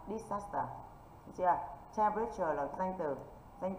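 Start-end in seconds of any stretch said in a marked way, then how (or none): 0.1-0.6 "Disaster" stressed on its second syllable; teacher's demo of "Disaster", weight on the middle syllable. Shown as a demonstration. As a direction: model "Disaster" as di-SAS-ter. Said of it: "âm disaster nhận trọng âm".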